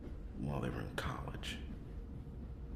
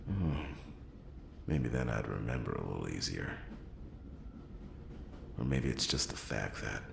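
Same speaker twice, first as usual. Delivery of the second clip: raised voice, exasperated; 2 semitones lower than usual. Acted. Louder frustrated rant.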